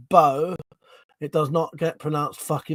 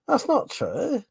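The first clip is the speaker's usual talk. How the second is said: shrill protest; 11 semitones higher, slower than usual. Real, not acted. Protest at translator.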